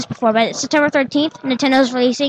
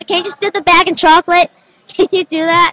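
robot at drive-thru; 4 semitones higher than usual. Retold or imitated. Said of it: "it's like the robot's going to, going through drive-thru".

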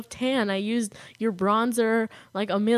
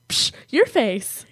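slow, louder teasing jab; mock sassy comeback; 2 semitones higher, 6 dB louder, much slower than usual. Friends bickering playfully over psh, sassy taunt. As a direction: fire back like a playground taunt.

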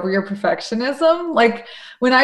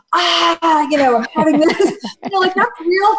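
laughing imperfect friend; 6 semitones higher than usual. Retold or imitated. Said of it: "somebody with a little bit of".

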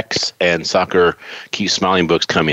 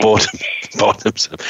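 a laughing, hammed-up British "bottoms up"; mock British toast; 3 semitones higher than usual. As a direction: toast like a jokey Englishman, laughing. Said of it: "you're not English till you say "bottoms up".

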